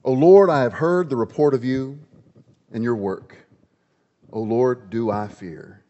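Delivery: scripture reading. Shown as a demonstration. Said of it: "Listen to what is written here".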